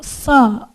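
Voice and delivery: san com vogal nasal vibrando no nariz. Shown as a demonstration. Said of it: "Olha lá, vai vibrar". (san nasal)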